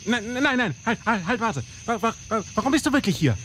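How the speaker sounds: frightened begging; stammer, begging for your life; pleading in fear. Acted. Begging not to be shot.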